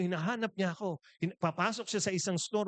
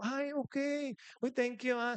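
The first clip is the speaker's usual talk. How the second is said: higher-pitched, modest little thank-you; mock gracious thanks; 8 semitones higher than usual. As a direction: act out flattered thanks to fans. Acts out his greeting to fans. (kunwaring nahihiyang pasasalamat)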